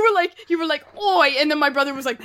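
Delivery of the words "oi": louder, higher British "oi"; mock British accent. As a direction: blurt an imitation British "oi". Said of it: "always starts doing the British accent".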